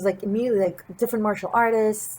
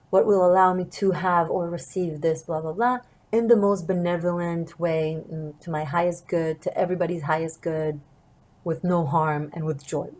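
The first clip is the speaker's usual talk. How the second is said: sincere request. Shown as a demonstration. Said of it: "say something like that".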